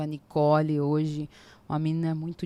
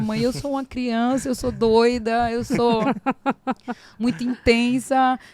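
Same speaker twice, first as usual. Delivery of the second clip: put-on panicky young self; 6 semitones higher, 3 dB louder than usual. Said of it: "eu falava assim".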